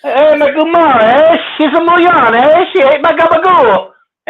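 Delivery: high Canadian singsong with "eh?" after each phrase; mock Canadian mobster. Redoing his catchphrase for co-host, mock Canadian "eh". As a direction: ham up the Canadian accent on mob slang. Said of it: "throw a little A at the back end".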